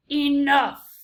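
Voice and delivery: loud barked order; stern command. A narrator's reading. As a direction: cut them off sharply. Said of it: "said the most very honored head mouse".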